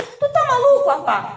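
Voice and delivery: retold high-pitched disbelief, dropping at the end; incredulous retort. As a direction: throw it at him in exasperated disbelief. Retelling her incredulous retort. (incredulidade exaltada, recontada)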